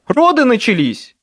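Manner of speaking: very high, loud yell; shout. A narrator's reading. Harry shouting to Michael about Charity, loud high yell. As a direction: cry the name out hard.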